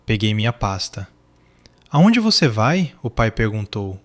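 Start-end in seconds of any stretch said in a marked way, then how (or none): 1.9-2.9 high, slow panicked question. A narrator's reading. Father panicking as his son leaves. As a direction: voice rising in panic. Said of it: "o pânico subindo na voz".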